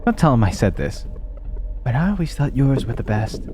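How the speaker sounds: a hint of a sweet, caring mother; doting mother voice. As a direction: read it like a loving mom.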